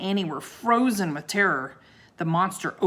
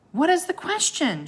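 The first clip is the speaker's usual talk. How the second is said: high, loud question; shouted; 11 semitones higher, 3 dB louder than usual. A narrator's reading. Annie demands the question, high loud shout. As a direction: call the question up to the monster. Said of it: "shouted Annie".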